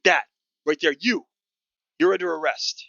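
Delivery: high, loud guard voice making an arrest. Acted. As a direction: call out the arrest across the deck.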